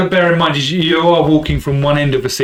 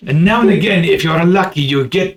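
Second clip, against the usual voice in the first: relishing vendor voice; 3 semitones higher than usual. Acted.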